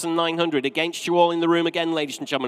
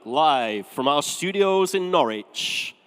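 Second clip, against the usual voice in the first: slow, grand game show announcer; lightly voiced seventies TV host; TV announcer impression; slower than usual. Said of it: "can you remember".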